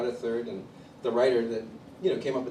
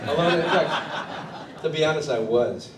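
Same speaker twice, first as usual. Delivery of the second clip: laughing admission; 3 semitones higher, 6 dB louder, slower than usual. Real, not acted. Laughs admitting Grammy dream.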